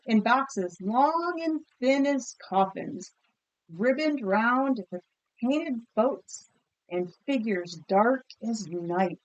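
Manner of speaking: measured storybook reading to a class; picture book read aloud. A narrator's reading. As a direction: read it like a story for kids, savouring each image. Teacher reads picture book aloud.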